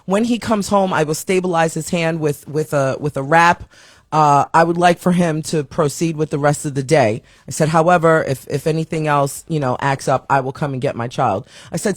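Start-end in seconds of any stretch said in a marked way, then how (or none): 0.0-7.2 composed calm. Retold or imitated. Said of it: "so you can tell she's holding herself together". 7.7-11.5 composed calm. Retold or imitated. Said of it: "so you can tell she's holding herself together".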